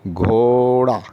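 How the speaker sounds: घोड़ा said slowly and held; slow model word. Shown as a demonstration. Teacher asks pupils to say घोड़ा after her. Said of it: "अब आप बोलिए".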